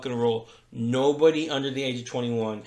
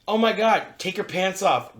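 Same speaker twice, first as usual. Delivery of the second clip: higher and louder excited call; mock eager invitation; 5 semitones higher, 4 dB louder than usual. The girl calling him into the room, mock eager and higher. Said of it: "and she's like".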